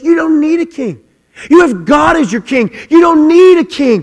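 high, loud, forceful rebuke; prophet rebuking. Retold or imitated. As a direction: thunder it down at the people. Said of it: "And Samuel goes".

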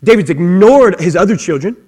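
ordinary delivery

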